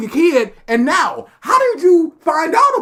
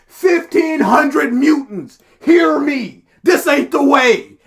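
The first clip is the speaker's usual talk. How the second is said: mock rallying speech; slower than usual.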